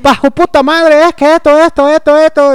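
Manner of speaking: fast, high, loud mock Veracruz speech; loud rapid-fire mock Veracruz accent. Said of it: "empieza a hablar así bien rápido".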